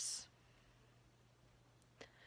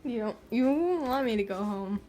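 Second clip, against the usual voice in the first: playful loud; 11 dB louder than usual. Real, not acted. Teasing reply, louder.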